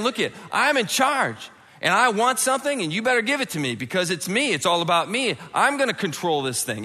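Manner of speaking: high, forceful self-important demand; domineering. Acted. Preacher voices someone seizing control, domineering. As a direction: lay down the law as the one in charge.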